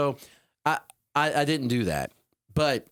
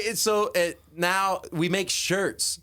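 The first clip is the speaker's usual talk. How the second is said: normal talking voice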